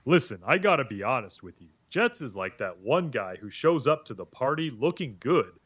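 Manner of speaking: lightly voiced Italian tough guy; a hint of a brash Italian-American; Italian-American accent. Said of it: "I want you to stay as Tony".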